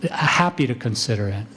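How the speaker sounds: calm, even reply. Shown as a demonstration. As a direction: say it calmly, no edge. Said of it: "very calmly say".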